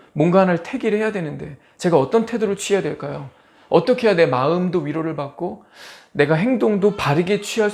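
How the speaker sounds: lightly voiced plea to God; a mild, earnest appeal for guidance; pleading believer. Believer in trials asking God for wisdom, lightly pleading.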